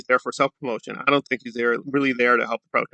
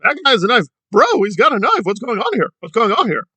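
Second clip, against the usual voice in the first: high, whiny alarmed yelling about a knife; mock panicked shouting; 10 semitones higher than usual. Commentator mocking the activist's panic, high whiny yells. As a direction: ham up a panicked man crying knife. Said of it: "starts shouting and whining".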